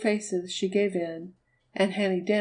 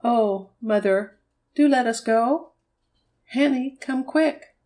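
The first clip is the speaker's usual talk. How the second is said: high, louder, drawn-out begging; excited begging; 4 semitones higher, 5 dB louder, slower than usual. A narrator's reading. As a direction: plead with mother, then call Hanny urgently. Jim begging his mother.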